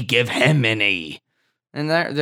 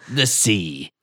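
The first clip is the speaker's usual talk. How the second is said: usual speaking voice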